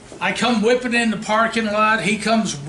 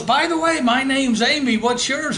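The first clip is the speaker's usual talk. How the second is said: put-on girl's voice; 5 semitones higher than usual. Woman introduces herself.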